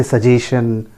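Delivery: सजेशन as su-JAY-shun; plain SH in सजेशन; common mispronunciation. Shown as a demonstration. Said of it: "That is also wrong". (सजेशन का गलत उच्चारण)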